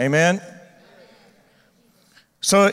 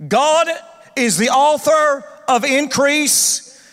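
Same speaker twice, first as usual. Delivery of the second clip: preached emphasis; 4 semitones higher, slower than usual. Acted.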